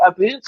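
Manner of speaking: about said as a boot, Canadian style. Retold or imitated. Explaining what Canadians supposedly say, a boot. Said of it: "about is say".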